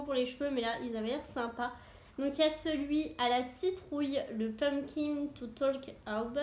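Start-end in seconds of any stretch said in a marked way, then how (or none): 4.4-6.4 French speaker's shaky English accent on Pumpkin to Talk About. Shown as a demonstration. Vlogger reading the product name, in a clumsy English accent. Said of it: "mon accent anglais".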